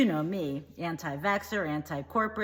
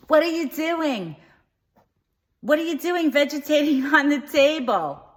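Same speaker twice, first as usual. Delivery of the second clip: mother screaming; 8 semitones higher, 10 dB louder than usual. Retold or imitated. Mother screams at her son lying on the table, loud shrieking yell. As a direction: scream it like a shocked mom. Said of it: "my mother screamed".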